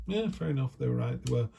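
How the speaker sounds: high-pitched, easy concession; conceding agreement. Acted. People accepting your blunt email, conceding agreement.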